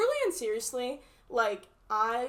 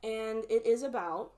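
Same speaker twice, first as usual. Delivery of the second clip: talking while chewing gum. Real, not acted. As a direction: speak with gum in your mouth. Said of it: "let me get rid of my gum".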